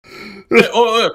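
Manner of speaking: player urgently stopping Puka mid-attack; urgent stop. Real, not acted.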